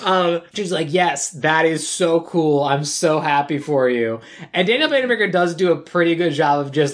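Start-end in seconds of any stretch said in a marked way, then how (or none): 0.9-4.2 slow, tight-lipped fake cheer hiding rage; quiet rage. Friend hides her rage and congratulates him, slowly. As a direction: force out the congratulations through simmering anger. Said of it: "like, quiet rage".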